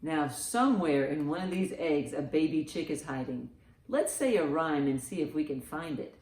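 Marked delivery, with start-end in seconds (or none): none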